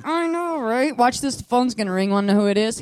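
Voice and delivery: high, loud, giddy boasting; acted-out bubbly agreement; excited teenager. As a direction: play the eager kid showing off a trick. Her high-school self showing off.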